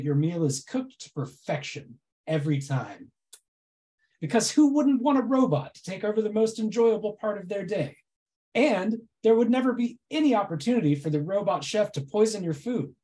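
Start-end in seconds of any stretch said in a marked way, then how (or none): 4.2-8.0 dry mock reassurance; deadpan irony, tongue in cheek; sarcastic. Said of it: "my incredibly sarcastic presentation". 8.5-12.9 dry mock reassurance; deadpan irony, tongue in cheek; sarcastic. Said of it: "my incredibly sarcastic presentation".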